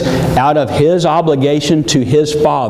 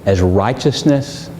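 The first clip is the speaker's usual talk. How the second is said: God speaking tenderly; 5 semitones lower than usual. Acted. God voiced to Jesus.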